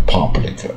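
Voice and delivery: "public" with an open "PAH" first syllable; mispronounced public. Shown as a demonstration. Teacher mimicking a common mistake, "public" with ah. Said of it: "很多念成public，念到卷舌".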